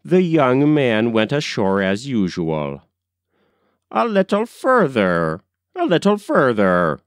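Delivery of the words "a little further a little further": crying out. A narrator's reading. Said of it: "cried the old man".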